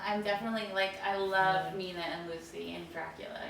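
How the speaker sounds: talking through fake fangs; words round plastic fangs; wearing vampire fangs. Real, not acted. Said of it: "put my fangs on for this".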